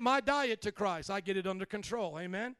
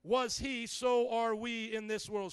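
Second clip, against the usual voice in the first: scripture read; slower than usual. Acted. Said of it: "The Bible says".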